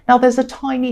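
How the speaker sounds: a bit hoarse, throat catching; croaky voice. Real, not acted. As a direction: talk through a croaky throat. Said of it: "I've got a croaky coughing voice".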